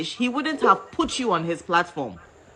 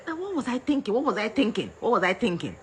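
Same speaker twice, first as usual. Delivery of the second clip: regretful self-question; 5 dB quieter, faster than usual. Retold or imitated. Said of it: "bɛbisa wo ho sɛ".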